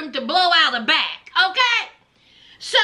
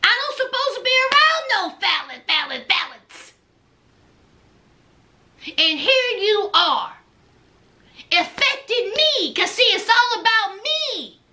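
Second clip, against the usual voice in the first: Lindsay; 3 semitones higher than usual. Retold or imitated. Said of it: "She said".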